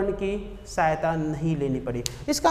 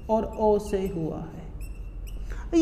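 very slow, drawn-out explanation; slow demo; 6 dB quieter, much slower than usual. Shown as a demonstration. Teacher spelling out how औ is formed, very slowly. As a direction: stretch each word out for the class. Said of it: "teacher slowly spells out औ".

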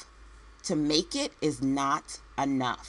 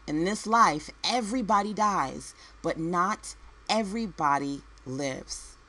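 emphatic repeat. Real, not acted. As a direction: repeat it for weight, stretching "not everybody lives". Repeats her maxim for emphasis.

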